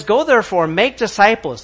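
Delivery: ringing preacher's command; emphatic command. Shown as a demonstration. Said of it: "So he says".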